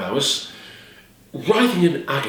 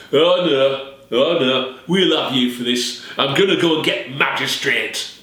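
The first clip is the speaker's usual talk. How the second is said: vengeful son. Acted. Son vowing revenge.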